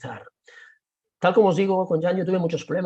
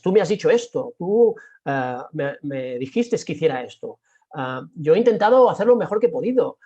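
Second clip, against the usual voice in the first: aggressive office tone; 5 dB louder than usual. Shown as a demonstration. Showing the office's aggressive tone, loud and accusing. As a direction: push back like a defensive coworker, loud and sharp. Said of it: "Es el tono asertivo, ese tono directo y directivo".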